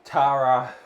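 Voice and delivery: names called loud to chat; calling out. Real, not acted. Laughing host calls names to chat loudly. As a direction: call out the name to chat.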